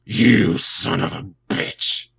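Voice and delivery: slow, husky whispered sick voice. Pretend. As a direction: croak it out like you're ill. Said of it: "I have my sick voice".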